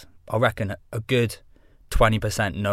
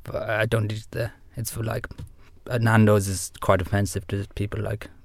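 put-on Sven accent at his usual pitch; 3 dB quieter than usual. Guest stays in character as his alter ego, put-on accent. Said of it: "putting on the fucking accent".

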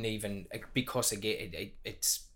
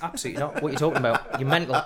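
laughing refusal; 6 dB louder, much faster than usual. Retold or imitated. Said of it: "I'd be like".

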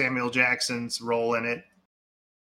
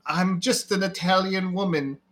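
higher-pitched mock trailer line; mock film actress; 6 semitones higher than usual. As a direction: imitate an actress declaring herself. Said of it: "this actress come up and say".

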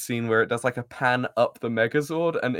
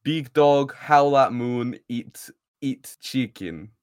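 mock Russian accent; 4 dB louder, slower than usual. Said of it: "he went into a Russian accent at the end".

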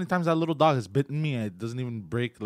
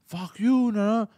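high, loud defiant refusal; retold screaming; 9 semitones higher, 4 dB louder than usual. Kid refusing to leave the house, imitated screaming. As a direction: yell back in mock outrage. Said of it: "If you keep screaming".

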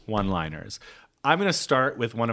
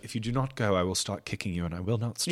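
softer, calm and even threat; 6 dB quieter than usual. Shown as a demonstration. Correcting her own reading, a calm quiet threat. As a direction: say the threat quietly, matter-of-fact. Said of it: "kind of calmly too".

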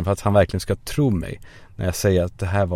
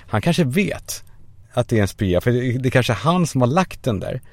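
ordinary talk

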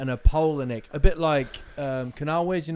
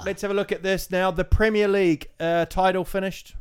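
higher, brisk TV pundit questioning a player; sports interviewer; 5 semitones higher than usual. Pretend. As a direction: play the post-match presenter grilling the player. Mock post-match TV interviewer.

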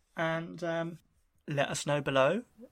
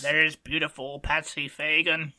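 mock Dennis commentary. Impersonating Dennis Taylor.

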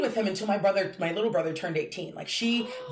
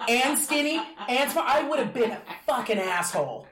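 laughing; 6 semitones higher than usual. Real, not acted. Laughing self-mocking rant.

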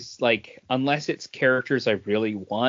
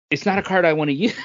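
laughs mid-line, louder and quicker; laughing; 6 semitones higher, 4 dB louder, faster than usual. Real, not acted. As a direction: blurt it out through a laugh. Dismissing a card he dislikes.

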